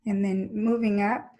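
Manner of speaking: even, unhurried body-scan voice; steady cues with long silences between them; guided meditation. Real, not acted. Teacher moving the class's attention up the legs, calm guided meditation.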